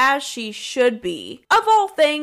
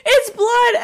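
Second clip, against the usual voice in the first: high, loud panicked cry; mock screaming; 12 semitones higher, 5 dB louder than usual. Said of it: "they all start screaming".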